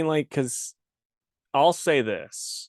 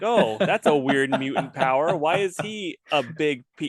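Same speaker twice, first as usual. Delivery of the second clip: higher mock-puzzled cartoon voice; X-Men announcer voice; 4 semitones higher than usual. Co-host questioning a weird mutant power, mock announcer voice. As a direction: question it like a hammy comic-book character. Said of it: "your X-Men announcer voice".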